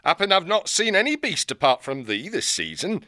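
a northern-voiced old owl hermit, gruff and folksy. Old hermit owl hailing the young hare. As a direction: greet her like a crusty old country owl.

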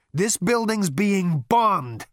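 slow, high alarmed cry; panicked shout. Acted. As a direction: yell it as the roof shakes. First bombing cry.

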